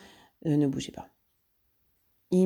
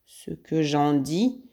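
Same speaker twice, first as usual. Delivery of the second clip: barely contained rage; much slower than usual. Acted. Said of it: "proféra Ganimard hors de lui".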